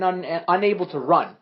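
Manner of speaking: stumbling over "unable"; tongue-tied, stuttered restarts; stuttering. Real, not acted. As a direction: trip on the word and restart it. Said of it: "What was that stuttering?".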